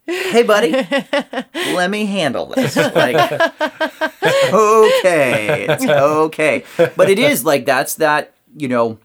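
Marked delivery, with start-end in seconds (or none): 0.1-6.6 reassuring adult self. Retold or imitated. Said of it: "inner child".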